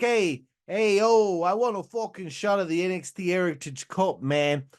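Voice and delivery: lightly put-on New York Italian accent; mock Italian-American accent. Tony asking for a title shot, mock Italian-American accent. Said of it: "the longer I do the accent".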